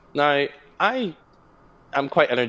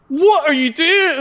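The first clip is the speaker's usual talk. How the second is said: brothers confused; 6 dB louder, slower than usual. Retold or imitated. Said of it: "My brothers start going like".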